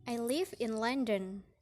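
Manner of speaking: "London" falls in pitch at the end; statement with a falling tune on "London"; falling statement intonation. Shown as a demonstration. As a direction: let the pitch drop on "London" as a plain statement. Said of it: "example of falling intonation in statement".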